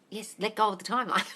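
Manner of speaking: ordinary talk, nothing marked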